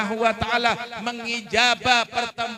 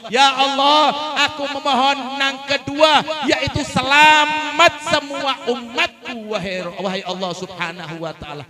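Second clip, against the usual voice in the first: loud, slow, fervent plea; Prophet pleading; 4 semitones higher, 9 dB louder, slower than usual. Acted. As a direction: cry out to God for all his people. Prophet chooses salvation for all. (seruan Nabi yang keras dan lambat memohon)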